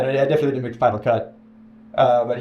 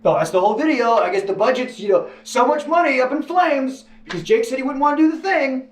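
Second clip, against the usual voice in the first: higher, exasperated mock producer; imagined producer complaint; 9 semitones higher than usual. Imagining the producers if he refused, exasperated higher mock grumble. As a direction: whine about the wasted budget. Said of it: "it's just".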